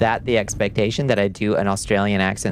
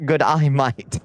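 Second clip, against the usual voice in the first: higher, mock Australian g'day mate; Aussie accent; 4 semitones higher, slower than usual. Showing chat a perfect Aussie accent, mock Australian greeting. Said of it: "Wanna see a perfect Aussie accent?".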